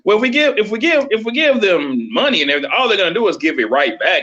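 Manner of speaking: condescending, talking down with a laugh; patronizing. Shown as a demonstration. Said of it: "this is my patronizing voice I'm using right here".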